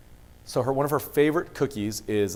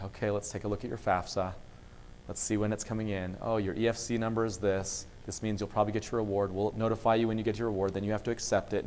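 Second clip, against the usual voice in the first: bored, routine advisor voice, softer; monotonous; 3 semitones lower, 5 dB quieter than usual. Retold or imitated. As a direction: drone through it like a chore. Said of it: "It can get fairly monotonous".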